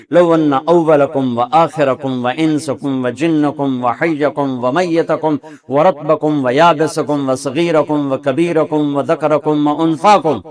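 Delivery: slow, measured Arabic recitation. Acted. Preacher quotes the Prophet's words to the congregation, in recitation. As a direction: recite the list in a steady, drawn-out cadence.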